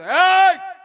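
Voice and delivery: sharp high shout; stern father's yell. Retold or imitated. Old-time father silences the crying child, loud shout. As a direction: bark it like a strict old father. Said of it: "આપણો બાપો એમ શાનો રાખતો".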